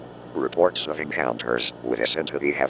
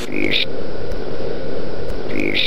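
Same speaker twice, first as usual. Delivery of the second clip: loud, lower, distorted word stuck on repeat; a corrupted alert stuttering the same word; glitching broadcast loop; 5 semitones lower, 11 dB louder, much slower than usual. Acted. The emergency broadcast breaks down, looping the word in a loud distorted glitch.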